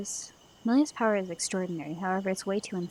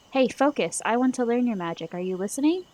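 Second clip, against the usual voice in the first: demanding; 3 semitones higher, 4 dB louder than usual. Acted. Girl demands attention.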